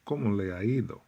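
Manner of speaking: "¿Cómo le ha ido?" blended into one word; run together like one word. Shown as a demonstration. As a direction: glide "¿Cómo le ha ido?" through in one breath, no breaks. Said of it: "it sounds like one word".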